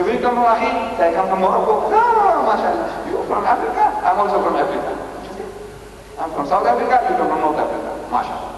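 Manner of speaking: friendly greeting. Retold or imitated. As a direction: act out warm strangers meeting.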